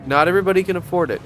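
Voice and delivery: quick, breezy brush-off; mock dismissive. Shown as a demonstration. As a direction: toss it off fast like it's obvious.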